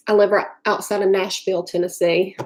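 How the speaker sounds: Nashville line with a Southern twang; Southern accent. Shown as a demonstration. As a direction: lean into a Tennessee Southern accent. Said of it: "That's really annoying, that accent".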